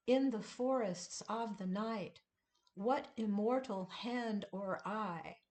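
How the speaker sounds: measured recitation of Tiger, tiger, burning bright; poetry reading voice; poem reading. Shown as a demonstration. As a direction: read the verse with its beat. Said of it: "reads the poem aloud".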